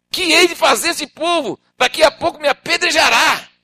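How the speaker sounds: desperate Moses. Acted. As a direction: cry to the Lord in fear.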